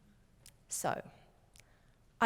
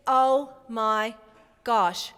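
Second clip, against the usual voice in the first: slow realisation; 3 dB louder, slower than usual. Retold or imitated. Friend's slow realisation told to husband.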